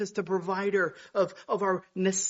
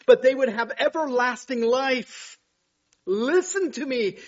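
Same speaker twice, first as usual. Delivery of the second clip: preaching at full force; 6 semitones higher, 9 dB louder than usual. Acted. Preacher voicing God the Father calling hearers to listen, loud. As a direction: proclaim it like God speaking.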